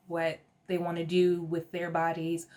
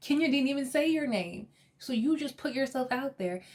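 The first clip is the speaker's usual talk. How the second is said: incredulous; 5 semitones higher than usual. Retold or imitated. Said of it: "I was like".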